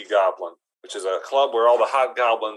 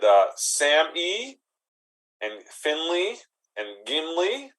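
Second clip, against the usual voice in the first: high, slow starstruck listing; awed goblin; 5 semitones higher, slower than usual. Acted. Goblin telling the bouncer about the hobbit, high and slow. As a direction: savour each name, high and slow.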